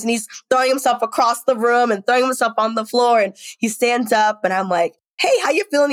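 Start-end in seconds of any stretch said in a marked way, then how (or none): 5.2-5.9 put-on high, light mom-to-child voice; retold gentle check-in, pitched up for a child; friendly check-in. Mother asking her son after his wild dance, lightly.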